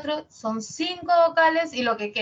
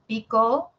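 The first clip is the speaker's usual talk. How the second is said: "pico" louder with a smaller rise at the end; varied tone; 5 dB louder than usual. Shown as a demonstration. Teacher tries another tone on the word, gently rising. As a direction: give "pico" a slight lift on the end. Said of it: "así lo digo con tonos y cambia".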